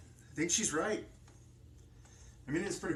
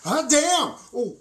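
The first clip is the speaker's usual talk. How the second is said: sudden, very high, loud yelp of alarm; startled outburst; 12 semitones higher, 12 dB louder, slower than usual. Acted. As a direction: blurt it out as something goes wrong. Accident during excited outburst.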